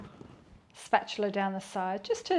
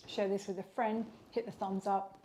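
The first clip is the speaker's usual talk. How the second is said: mouth full. Real, not acted. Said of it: "Stop talking with my mouth full".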